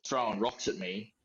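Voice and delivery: words pushed out through a burp. Real, not acted. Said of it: "Sorry, there's burp number eight".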